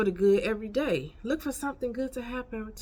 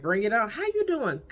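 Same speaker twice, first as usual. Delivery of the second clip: eager welcome; 3 semitones higher, 3 dB louder than usual. Acted. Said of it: "I be like".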